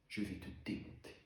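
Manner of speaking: hushed, controlled threat. Acted. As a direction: threaten under your breath, held in. Acted threat to his father.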